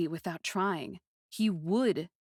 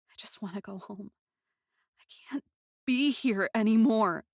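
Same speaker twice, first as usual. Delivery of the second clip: despairing sob; 3 semitones higher, 4 dB louder than usual. Acted. Narrator breaking down.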